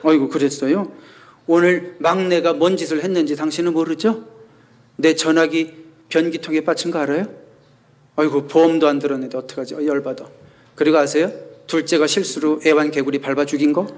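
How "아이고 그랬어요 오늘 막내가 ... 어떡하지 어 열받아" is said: a touch of sarcasm with a laugh on "아이고, 그랬어요?"; lightly mocking wife topping his complaints; sarcastic. Wife hits back at her husband, mildly sarcastic and laughing. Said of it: "약간 비아냥거리는 투로".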